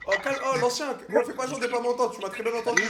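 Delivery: loud calling out; shouting. Real, not acted. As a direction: yell it across the room. Yelling at stranger on cam.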